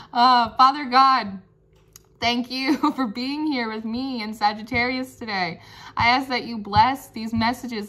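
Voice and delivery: steady earnest prayer. Acted. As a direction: pray sincerely over the cards. Prays over the cards.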